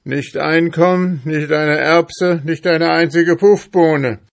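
high, loud, indignant tirade; loud, worked-up outburst of protest; angry shouting. A narrator's reading. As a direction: shout in outraged denial. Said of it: "schrie Ambrosius Dauerspeck wütend".

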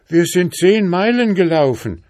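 foals shouting. A narrator's reading. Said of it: "schrien die Füllen".

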